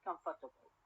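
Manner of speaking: Comfortable stressed on COM, falling away; stress on first syllable. Shown as a demonstration. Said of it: "at the first syllable".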